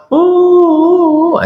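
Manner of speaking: high, thin little sobbing sounds; a half-hearted hired mourner's sob; weak crying sobs. Shown as a demonstration. Preacher mimicking a cheap crying group at a funeral, high thin sobs. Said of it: "Kalau nangisnya cuma".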